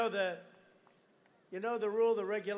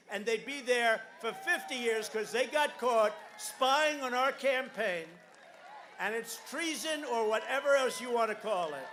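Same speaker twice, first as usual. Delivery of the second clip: full-force rally delivery, hammering each point; rally speech; 6 dB louder than usual. Real, not acted. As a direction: drive it home to the crowd. Rally crowd, shouted lines.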